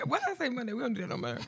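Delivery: normal talking voice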